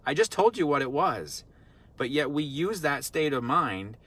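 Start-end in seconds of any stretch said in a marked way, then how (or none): 0.0-1.4 quick, higher, exasperated mock scolding of a child. Adult scolding a forgetful five-year-old, mock exasperation. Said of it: "We're not gonna correct them and go".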